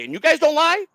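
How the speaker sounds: high, mocking disbelief; sarcastic rhetorical question; incredulous jab. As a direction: throw the accusation back at them. Confronting officials about lying.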